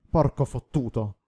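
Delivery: slow, restrained yell of a curse. A narrator's reading. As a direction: curse out loud, drawing it out slowly. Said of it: "urlò Quint".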